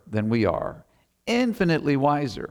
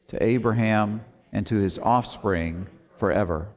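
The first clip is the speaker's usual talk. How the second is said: scripture reading. Acted. Reads scripture aloud slowly.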